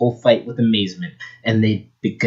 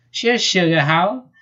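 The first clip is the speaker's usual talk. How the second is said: high, eager southern voice; beaming; 7 semitones higher than usual. Acted. Rabbit agrees to join the fight, beaming. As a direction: beam it with southern pep. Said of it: "beamed Bunny".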